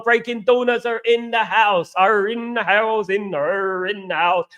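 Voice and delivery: put-on a light Bristol accent, drawn out slowly. Greeting his viewers in a light Bristol accent. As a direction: lean into a West Country Bristol accent, unhurried. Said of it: "I went a bit, um, like, a bit like Bristol there".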